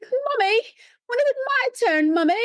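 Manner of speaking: very high, whiny mock child voice; imitated crying girl. Little girl to mom at voting, mock crying. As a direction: wail it like a little kid, hammed up. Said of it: "this little girl who was crying".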